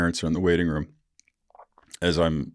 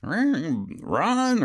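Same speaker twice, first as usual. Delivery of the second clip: retold scream; 13 semitones higher than usual. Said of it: "She fucking screams for her husband".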